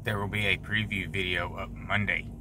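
hushed, breathy aside; whispering. Real, not acted. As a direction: whisper so nobody hears. Whispers closing remarks.

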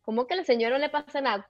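quick incredulous echo; retold disbelief. Daughter questioning her mother's reassurance, retold disbelief. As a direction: throw the words back in rapid disbelief. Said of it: "y yo".

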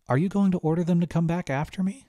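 put-on rising worry in a young voice; anxious girl. A narrator's reading. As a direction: ask it with growing fear. Girl frightened asks.

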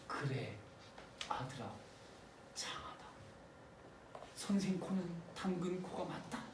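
low, whispered approval from a mother; hushed mock mother. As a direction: murmur it like a calm proud mother. Mother quietly approving son.

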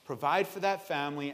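soft, deliberate tough talk to oneself; quiet self-scolding. Acted. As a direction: scold yourself under your voice in the mirror. Scolding himself in the mirror.

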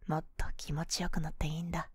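quick soft whisper. Acted. Whispered repeat of suggestion.

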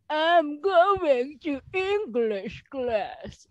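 put-on slow, old grandfather voice. Shown as a demonstration. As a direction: speak slowly like an old grandpa.

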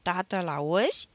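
loud, drawn-out tattletale whine; slow, plaintive girl's complaint; whining. A narrator's reading. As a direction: whine to dad about your brother. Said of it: "se miorlăi fata".

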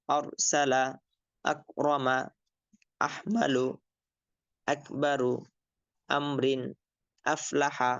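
each word read whole, slow and clear; reading words aloud. Shown as a demonstration. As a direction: pronounce each spelled word cleanly. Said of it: "বানান বলার পরে এটার উচ্চারণও বলে ফেলবেন". (বানানের পর প্রতিটি শব্দ স্পষ্ট উচ্চারণ)

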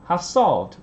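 SOLVED punched for contrast; stress on solved. Shown as a demonstration. Teacher explaining contrast with stated, stress on solved. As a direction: lean on "solved" against "stated". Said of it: "nhấn vào từ solve này".

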